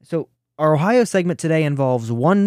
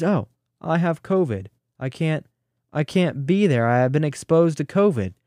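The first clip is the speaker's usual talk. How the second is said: halting, lightly mimicked excuse; mock a politician begging off, haltingly; Mike DeWine. Host quoting governor's usual excuse, light mocking impression. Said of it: "the most commonly used, uh, phrase by him".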